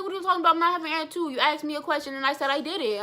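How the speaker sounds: arguing with her sister, high and indignant; indignant retort. Retold or imitated. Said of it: "And I was like".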